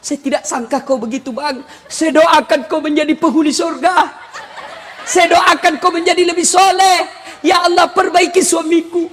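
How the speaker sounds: hammed-up tearful wife's prayer; mock-anguished prayer for a husband; angry while praying. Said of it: "marah sambil berdoa".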